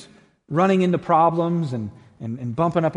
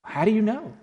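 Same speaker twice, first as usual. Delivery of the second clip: much higher, puzzled question; incredulous Shasta; 7 semitones higher than usual. A narrator's reading. Shasta questioning the voice in the fog, high and incredulous. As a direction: ask it high, in disbelief.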